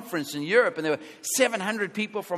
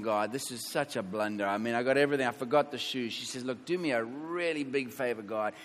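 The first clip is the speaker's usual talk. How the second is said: softer, lower murmured prayer to God; quiet retold prayer; 6 semitones lower, 8 dB quieter than usual. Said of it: "she's saying".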